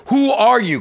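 high, loud bewildered cry; all caps email. Retold or imitated. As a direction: shout it like question marks. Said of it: "question marks, exclamation points".

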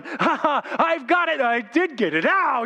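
high, crowing fish ending in a yelp; triumphant fish. Acted. Preacher plays the fish as the hook sets, hammed-up glee turning to ow. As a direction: crow with mock triumph, then get caught. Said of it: "when he's going".

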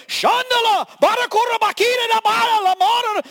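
loud, high shouted tongues; fervent shouted prayer in tongues; tongues shouting. Retold or imitated. Pat prays in tongues loudly.

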